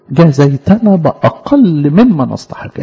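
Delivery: slow, measured verse reading; solemn slow scripture recital; scripture recitation. Acted. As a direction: intone the verse slowly like a reading.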